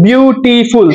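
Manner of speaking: বিউটিফুল drawn out in three syllables. Shown as a demonstration. Teacher showing students three syllables, বিউটিফুল said syllable by syllable. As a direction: break বিউটিফুল into বিউ, টি, ফুল. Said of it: "তিনটা syllable লাগে না".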